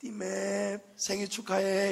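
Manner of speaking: sweet, honeyed, extra-nice, friendly voice. Sermon example of entering an event again and again, mock-sweet friendly voice. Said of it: "좀 상냥한 목소리로 하면 일 등 줄까 싶어서".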